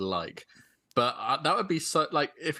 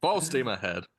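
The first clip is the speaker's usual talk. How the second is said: through a megaphone. Retold or imitated. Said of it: "It's a full megaphone voice".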